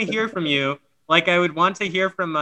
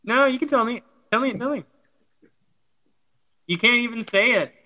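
teasing; 7 semitones higher than usual. Real, not acted. Teasing, pitch up high.

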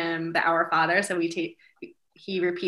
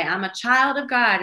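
higher, louder affirmation for repeating; mom leading affirmations; 5 semitones higher, 6 dB louder than usual. Retold or imitated. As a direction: proclaim it for a child to echo. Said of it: "I'll say".

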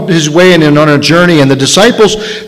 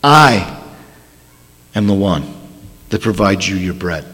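much lower and softer; quiet tender promise; gentle quiet; 10 semitones lower, 6 dB quieter than usual. Retold or imitated. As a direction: intimate assurance, hushed.

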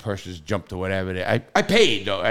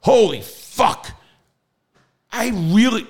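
slow, higher and louder shock; shocked outburst; 12 semitones higher, 5 dB louder, slower than usual. Retold or imitated. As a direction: let the shock land, drawn out. Waking to feds in room.

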